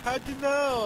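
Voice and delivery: squeaky high impression of them; high mock voice. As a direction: raise the pitch mockingly. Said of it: "They're like".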